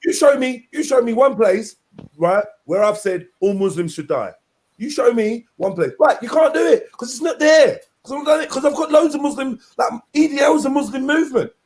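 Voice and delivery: lightly voiced, defensive rant; a hint of Tommy insisting; Tommy Robinson impression. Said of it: "my Tommy impression".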